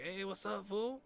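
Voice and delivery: high-pitched imitation of buddy's accented greeting; Chavez's way of talking. Buddy answering a phone call, high accented greeting imitation. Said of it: "Chavez literally talks like that".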